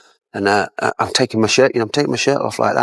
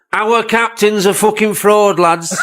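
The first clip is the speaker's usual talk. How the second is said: laughing mock jeer; 11 semitones higher, slower than usual. Clough mocking his captain, laughing.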